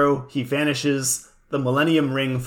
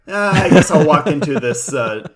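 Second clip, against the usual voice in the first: bored shrug voice; 7 dB louder than usual. Retold or imitated. Voicing bored Yugi.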